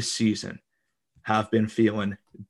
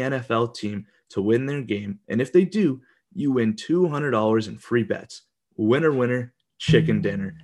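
ad read. Acted. Reads sponsor ad for DraftKings.

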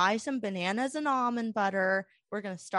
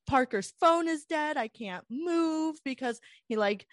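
panicked; 4 semitones higher than usual. Retold or imitated. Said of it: "went to an extreme".

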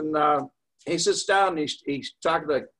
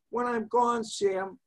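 softer, slightly raised plea; mild mock-quiet voice; imitated quiet talker; 4 semitones higher, 5 dB quieter, slower than usual. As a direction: retell it as a meek, hushed request. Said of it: "This guy talked very quietly".

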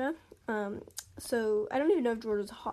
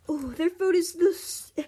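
high, louder delighted voice; happy gushing; 6 semitones higher, 4 dB louder than usual. A narrator's reading. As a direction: gush happily, stretching the words. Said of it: "happy, happily".

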